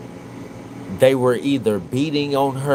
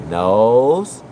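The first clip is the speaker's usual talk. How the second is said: louder, rising one-word prompt; prompting a toddler; 6 dB louder than usual. Retold or imitated. Father quizzing his toddler son on body parts, louder rising prompt. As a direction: call out the body part like a quiz for the baby. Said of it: "Because I say".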